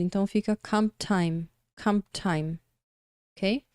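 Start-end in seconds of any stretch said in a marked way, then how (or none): 0.6-2.6 "comp time" with the P dropped; pronunciation demo. Shown as a demonstration. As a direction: model "comp time" with no clear P. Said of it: "acaba desaparecendo".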